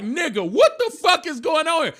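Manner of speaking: high indignant demand; suspicious wife. Retold or imitated. Wife's suspicious look voiced.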